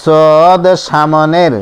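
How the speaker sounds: সদ said slowly with a full heavy sound; letter sound demo. Shown as a demonstration. Teacher showing learners how to say সদ. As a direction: stretch সদ so the heavy sound is clear. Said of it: "সদ অক্ষরটার উচ্চারণ".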